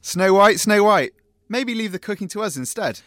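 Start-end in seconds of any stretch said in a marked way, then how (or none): 0.0-1.1 calling out. Acted. Dwarf calling to Snow White.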